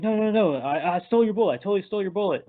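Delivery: high-pitched mock panic; panicked pleading. Kid begs friend not to call cops, panicked. Hero stops Freddy calling the cops.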